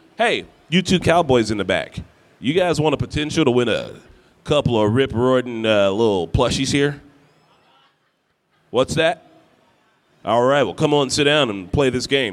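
put-on cowboy voice, calling out. Calling over two people in the back to play a game, cowboy voice. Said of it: "That's my cowboy voice".

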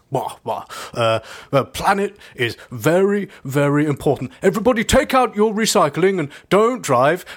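slow, drawn-out mocking parody of speech. Speaker mimicking the person they are talking to, doing an impression of the person addressed. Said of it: "This is my impression of you".

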